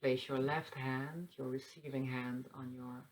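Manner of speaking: soft, unhurried meditation guide; hushed instructions with long pauses; guided meditation. Acted. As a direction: guide them gently into breathing. Leads a breathing meditation.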